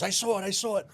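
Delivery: high, loud, lightly imitated Ukrainian accent; excited guard with a light Ukrainian accent. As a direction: retell the guard's urgent report with a hint of Ukrainian accent. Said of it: "this guy, with a bad accent".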